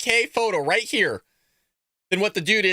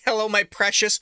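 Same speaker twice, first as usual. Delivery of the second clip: Gollum impression; 2 semitones higher than usual. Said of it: "I thought I could do an impression".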